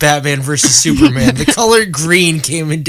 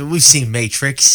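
put-on Australian accent; slower than usual. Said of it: "the B D S M scene in Sydney".

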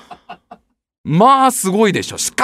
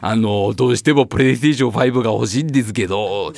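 put-on low pleading kid; child voice; 12 semitones lower than usual. Child insisting. (子供のおねだり)

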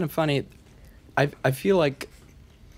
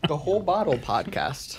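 laughing; 3 semitones higher than usual. Real, not acted. Laughing proposal.

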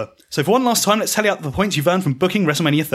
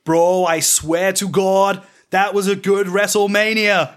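slow, higher-pitched boss impression; a lightly done McMahon, stretched out slow; Vince McMahon voice; 3 semitones higher, much slower than usual. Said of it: "bellows Vince McMahon".

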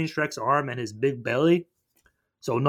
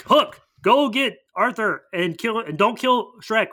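higher, slow villain command; lightly voiced evil boss; mock villain orders; 6 semitones higher, slower than usual. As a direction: give henchman orders slowly, pitched up. Villain giving orders, retold.

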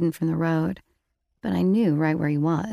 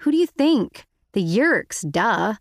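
exasperated; 4 semitones higher, 3 dB louder than usual. A narrator's reading. Rachel mocking Marco.

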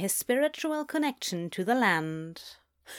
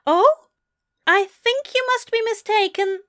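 very high, louder British denial; precise British accent; 12 semitones higher, 5 dB louder than usual. A narrator's reading. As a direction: deny it politely in a raised British voice. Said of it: "the British voice".

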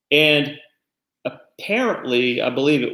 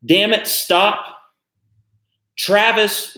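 half-hearted retold shout; retold yell; 7 semitones higher, much slower than usual. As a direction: call it out like a restrained imitation of yelling. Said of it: "then he yells something like".

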